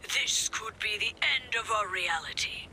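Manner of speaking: lightly mimicking a doom-sayer; mock-grave imitation; mocking quote. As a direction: put on a slightly different voice to mock him. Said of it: "that guy's always saying".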